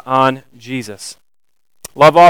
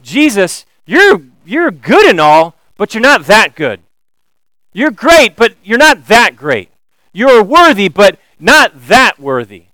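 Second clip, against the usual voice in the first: mock dismissive; 4 semitones higher, 4 dB louder than usual. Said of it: "they're saying".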